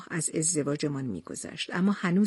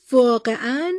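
louder, higher rising question; wide-eyed surprise; 5 semitones higher, 7 dB louder than usual. A narrator's reading. Wife stunned to hear of a suitor, amazed. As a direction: blurt it out, amazed. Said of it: "چشمایم از تعجب گرد شد".

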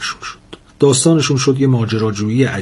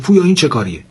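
higher-pitched scolding question; mildly cross teacher calling a pupil out; angry; 6 semitones higher, 4 dB louder, faster than usual. A narrator's reading. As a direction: reprimand with a touch of anger. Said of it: "بهرام عصبانی شد و گفت".

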